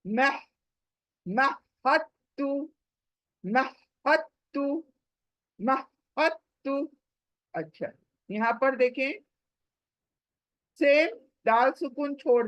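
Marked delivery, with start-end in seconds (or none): 1.2-6.9 महत्तु recited slowly, jumping from हा straight to ता; slow recitation. Shown as a demonstration. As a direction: draw out महत्तु, skipping the दाल. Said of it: "हा से ता पर jumping".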